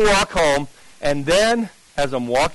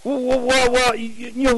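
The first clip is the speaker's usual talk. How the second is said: higher, halting imitation of nerves; scared stammer; 5 semitones higher than usual. Scared evangelist answers in the alley, imitated nervous stammer. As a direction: stumble over repeated words, mock flustered. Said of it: "He was really scared. He's going".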